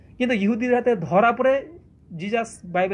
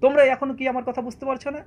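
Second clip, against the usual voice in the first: a raised, sharp retold scolding; imitated rebuke; 4 semitones higher than usual. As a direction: snap at the disciples in mock impatience. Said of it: "সঙ্গে সঙ্গে ধমক দিত".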